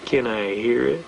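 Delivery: slow, low mock-judge request; drawn-out question from the bench; imitated judge. Imitating judge demanding the reason.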